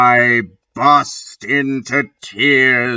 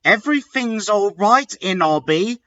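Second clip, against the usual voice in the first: sensitive; 8 semitones higher, faster than usual. Acted. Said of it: "all sensitive".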